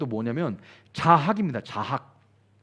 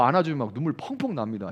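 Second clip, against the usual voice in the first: usual speaking voice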